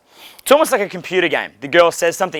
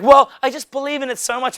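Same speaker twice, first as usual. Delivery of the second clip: imitating girl; 8 semitones higher than usual. Quoting the girl.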